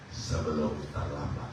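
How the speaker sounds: slow, hushed voice of God; quietly slowed down, as a solemn warning; God's words. Retold or imitated. God warns the preacher softly and slowly. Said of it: "Tuhan bilang apa sama saya?".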